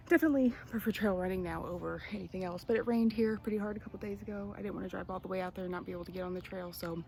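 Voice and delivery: talking out of breath after a run; winded, catching breath between phrases. Real, not acted. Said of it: "sorry, I'm so out of breath right now".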